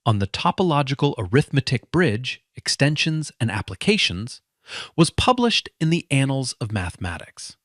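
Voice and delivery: measured, dramatic storytelling voice; story narration. A narrator's reading. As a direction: tell it like an inspiring true story.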